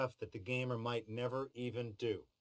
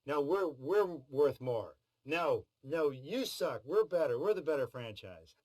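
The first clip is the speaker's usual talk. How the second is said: mock argument; 4 semitones higher, 4 dB louder, slower than usual. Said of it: "yelling at each other, going".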